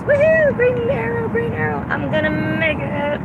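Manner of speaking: high whoop stretched into singsong; excited cheering. Real, not acted. Driver cheering at a green arrow, excited. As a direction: squeal it high, drawing out the last words.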